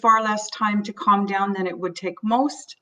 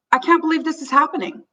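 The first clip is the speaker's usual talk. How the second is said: higher, anxious disbelief; mild acted panic, pitched up; voicing panic; 6 semitones higher, faster than usual. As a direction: sound rattled, as if it's hitting you now. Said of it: "your own sense of panic".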